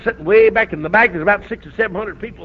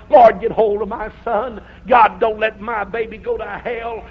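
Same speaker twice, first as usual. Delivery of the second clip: desperate prayer; slower than usual. Retold or imitated. Mother praying at altar.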